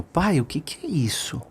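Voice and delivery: put-on frightened boy asking his father quietly; very softly. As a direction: ask dad in a hushed little voice. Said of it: "falou bem baixinho".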